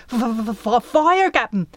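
frightened stammer on the f; trembling, stuttering report; stuttering fear. A narrator's reading. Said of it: "knees shaking".

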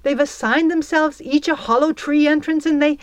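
high, loud wail of complaint. A narrator's reading. Belle wailing to absent Peter about the girls. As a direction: pour out the grievance to Peter. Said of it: "she wailed".

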